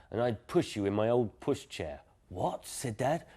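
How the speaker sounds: gentle storyteller voice for children, voicing Dad and Daisy; bedtime story reading. A narrator's reading. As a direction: read it like a bedtime book to a little one. Reads bedtime story aloud.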